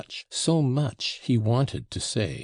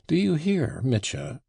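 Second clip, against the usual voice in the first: pressing question, pitched higher; higher, urgent prodding; insistent; 7 semitones higher than usual. A narrator's reading. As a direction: demand his attention. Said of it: "she went on insistently".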